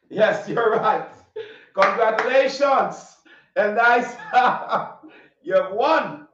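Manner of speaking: laughing while congratulating. Real, not acted.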